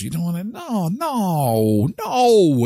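insistent no. Real, not acted. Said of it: "pleading no".

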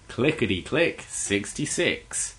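slow, drawn-out bingo call; bingo caller. Retold or imitated. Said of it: "back home it's like".

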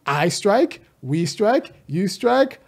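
language teacher's drill, each phrase lifting at the end; mock conjugation drill. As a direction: playfully recite it like a verb table.

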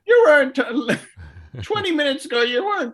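high-pitched, laughing protest; incredulous laughter. Real, not acted. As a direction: break up laughing while objecting in disbelief. Cracking up at player's new accent.

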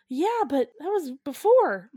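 high, loud comic objection; mock protest. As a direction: fend off an unwanted lover. Man protesting in acted quarrel.

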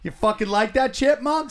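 goading sing-song on chipmunk; mock taunt. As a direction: needle him with the pet name. Teasing with the nickname.

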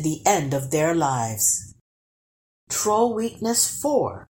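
measured storybook reading; story narration. A narrator's reading. Narrator telling listeners how trolls turn to stone, story narration. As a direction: read the folk tale aloud to listeners. Reads a folk tale aloud.

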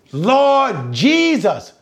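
high, drawn-out preacher's cry; crying loudest. Acted. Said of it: "they cried it ever the loudest".

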